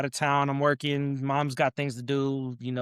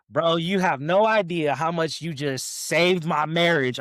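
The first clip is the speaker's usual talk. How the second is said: sarcastic; 2 semitones higher, slower than usual. Retold or imitated. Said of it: "Obviously, I'm being sarcastic".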